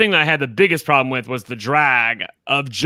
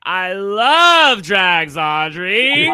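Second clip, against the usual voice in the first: slow, drawn-out sarcastic quote; 3 semitones higher, much slower than usual. Retold or imitated. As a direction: stretch it out, dripping sarcasm. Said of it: "I was like".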